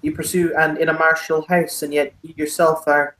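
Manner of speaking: courtly, curious Irish baron; thickest Irish accent. Acted. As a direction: probe politely in a broad Irish accent. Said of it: "the thickest Irish accent".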